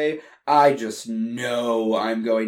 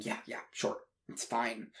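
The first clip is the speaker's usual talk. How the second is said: dismissive brush-off; 2 semitones lower, 15 dB quieter than usual. Acted. Distracted songwriter brushing off apology.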